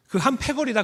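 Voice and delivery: name him as one of the gang; mock accusing bystander. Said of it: "그런 말이에요".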